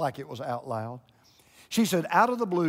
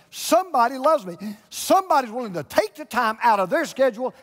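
building from plain to loud and high; preacher building to a shout; rising preacher's shout; 6 semitones higher, 5 dB louder than usual. Real, not acted. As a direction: climb higher with each line till you're shouting.

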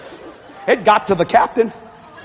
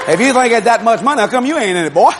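loud retort; 4 semitones higher, 4 dB louder than usual. Retold or imitated. Retorts to heckler.

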